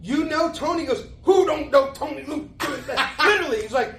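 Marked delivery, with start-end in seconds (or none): 0.0-0.8 high, loud, excited TV-host voice; Regis impression. Regis greeting Tony backstage, high and loud with delight. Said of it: "picture Regis, the way he talked". 1.2-2.5 high, loud, incredulous TV-host voice; Regis impression. Regis answering Leo, high and loud with amazement. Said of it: "picture Regis, the way he talked".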